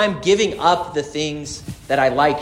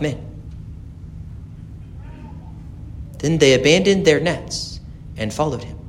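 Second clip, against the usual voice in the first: gospel reading; 4 dB quieter than usual. Acted. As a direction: proclaim it to the congregation.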